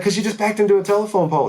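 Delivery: very high, loud, fast cartoonish disbelief; hammed-up shocked passenger voice; exasperated buddy. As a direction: squeal it at him like he's crazy. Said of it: "He's like".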